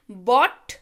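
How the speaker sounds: "bought" with no R sound; bought without R. Shown as a demonstration. Teacher contrasting two confusable words for children, "bought" without R. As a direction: say "bought" slowly, leaving out any R. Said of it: "आपको मेरी आवाज़ से समझ आ रहा होगा".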